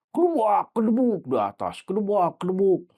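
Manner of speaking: sound-effect words for heavy thumps; imitated thudding. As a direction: act out thuds from upstairs. Imitates thudding noises from upstairs.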